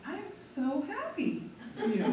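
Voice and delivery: slow, said through a laugh; laughing happy reply. Retold or imitated. Answering Angela's pride about the dryer, laughing. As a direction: beam and laugh while saying it.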